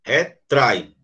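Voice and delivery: "Retrai" broken in two, re, TRAI; stress on TRAI. Shown as a demonstration. Teacher repeats the strongest syllable, stress on "trai" in "Retrai". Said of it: "a mais forte é trai".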